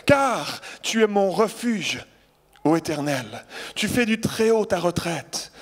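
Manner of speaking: slow, solemn psalm reading; scripture reading. Acted. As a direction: read the psalm as a proclamation. Preacher reads Psalm 91 aloud. (lecture solennelle du psaume)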